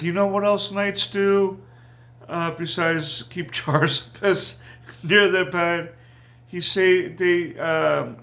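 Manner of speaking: retold line with a laugh slipping in; amused retelling. Chuckles retelling boy's pee-jar joke.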